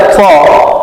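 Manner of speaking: फ said as "fa", with friction; friction f sound. Shown as a demonstration. Teacher shows the borrowed letter, फ as fa. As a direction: give फ friction, making it f. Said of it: "रगर उत्पन्न हो रहा है".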